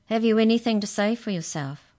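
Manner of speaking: high, loud, quivery question. A narrator's reading. Majorette questioning the accused, quivery voice. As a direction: ask with a tremulous wobble. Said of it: "asked the majorette in a quivery voice".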